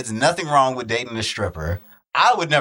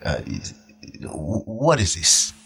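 Gordon Ramsay; slower than usual. Retold or imitated. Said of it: "You mean like Gordon Ramsay?".

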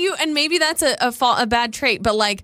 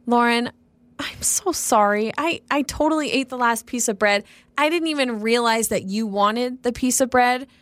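sincere apology. Shown as a demonstration. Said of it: "I need you to be like".

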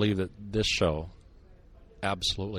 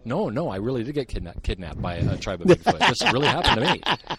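louder, mock-earnest insistence; sarcastic; 5 semitones higher, 8 dB louder than usual. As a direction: sell the lie with fake sincerity. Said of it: "Did you catch the sarcasm".

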